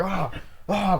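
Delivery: high mock cries; imitated screams. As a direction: act out two short yells.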